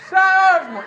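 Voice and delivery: very high, loud mock scream; screaming Skittles. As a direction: howl the word like the ward patient. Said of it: "he would just scream".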